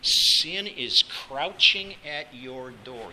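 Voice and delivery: slow, weighty warning; grave warning. Acted. God cautioning Cain about sin, slow warning. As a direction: spell out the danger word by word, slowly. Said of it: "remarkable warning".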